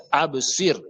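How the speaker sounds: Absir with an echo after B, none after R; bouncing qalqala ba. Shown as a demonstration. Teacher explaining the qalqala letter, ba bounced. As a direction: release the B, leave the final r plain. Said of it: "Le bas".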